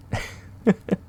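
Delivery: short fond chuckle; brief amused laugh; light chuckle. Acted. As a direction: chuckle after a gentle tease. Teasing the listener fondly.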